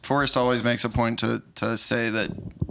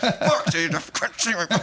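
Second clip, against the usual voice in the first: high-pitched comic yelling; hammed-up strained holler; mock screaming; 7 semitones higher than usual. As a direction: act out a botched assassin cursing himself. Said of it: "They're still screaming".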